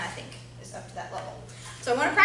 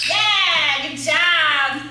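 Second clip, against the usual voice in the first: excited dog praise; 5 semitones higher, 10 dB louder, much slower than usual. Real, not acted.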